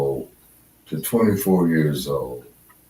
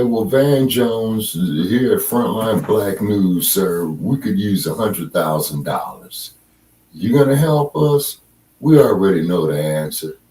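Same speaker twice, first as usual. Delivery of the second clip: sarcastic. Pretend. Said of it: "I'm just being sarcastic".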